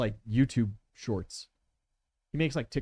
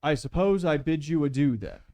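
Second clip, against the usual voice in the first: lightly voiced courteous rogue, higher; polite gentleman villain; 4 semitones higher, 6 dB louder than usual. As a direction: feign innocence with fussy politeness. Villain takes his leave.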